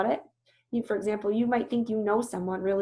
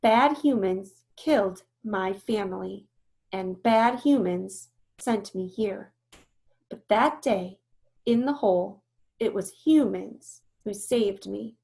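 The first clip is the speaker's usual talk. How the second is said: strong voice; 3 dB louder than usual. Acted. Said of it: "her voice is strong".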